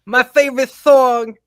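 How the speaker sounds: high, laughing, sultry Marilyn Monroe parody; a hammed-up Marilyn Monroe; mock Marilyn Monroe. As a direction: purr it like Marilyn Monroe while giggling. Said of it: "doing Marilyn Monroe".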